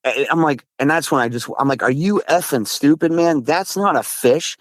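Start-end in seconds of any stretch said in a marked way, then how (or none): 1.8-4.6 retold exasperation. Retelling a spat with a friend about a splash, exasperated. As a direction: argue back in mock disbelief.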